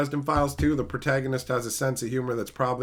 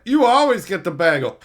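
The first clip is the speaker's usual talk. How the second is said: higher, louder sitcom banter; hammed-up sitcom delivery; mock sitcom line; 4 semitones higher, 6 dB louder than usual. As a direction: play it like a canned punchline. Mocking sitcom dialogue.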